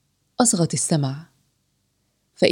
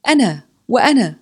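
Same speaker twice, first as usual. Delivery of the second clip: put-on high, eager kids volunteering; storyteller's mock children's cry; children shouting; 6 semitones higher, 4 dB louder than usual. A narrator's reading. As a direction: call out like children competing to be picked. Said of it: "صاح الأطفال".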